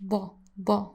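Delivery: DA with a thick d, like a Russian accent; thick, heavy da. Shown as a demonstration. Teacher demonstrating Arabic letter, thick Russian-like DA. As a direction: make each DA as heavy as you can. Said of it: "Russian accent when you're saying da".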